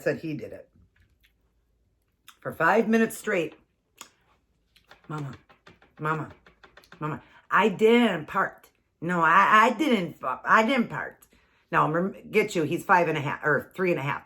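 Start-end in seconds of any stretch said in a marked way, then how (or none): 5.1-11.2 imitating her little son's lisp, slow and pleading, with "part" for fart; a small boy insisting "I didn't part". Mom imitating son denying the fart, lisping child. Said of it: "the word part came out instead of part".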